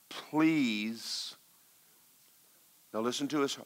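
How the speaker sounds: drawn-out, softened plea; pleading Holy Spirit. Retold or imitated. Holy Spirit to the praying preacher, pleading. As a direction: stretch the word into a long, gentle appeal. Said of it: "And the Holy Spirit said".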